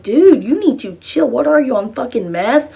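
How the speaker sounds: indignant retort, retold; exasperated comeback. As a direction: push back in disbelief. Retold comeback to angry stranger.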